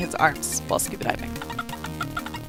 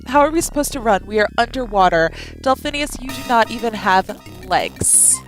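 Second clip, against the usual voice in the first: higher, exasperated objection; exasperated boy voice; 4 semitones higher than usual. Acted. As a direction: protest in disbelief. Adam answers Delphinius.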